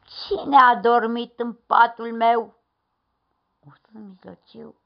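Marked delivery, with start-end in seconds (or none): 0.0-2.6 slow, loud cross bear grumble; big bear grumbling angrily; angry growl. A narrator's reading. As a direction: growl it slowly, annoyed. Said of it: "a mormăit supărat".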